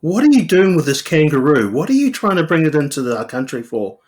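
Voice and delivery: high, baffled mock customs officer; mock border guard. Imagined guard puzzling over kangaroo and Weet-Bix, high mock bewilderment.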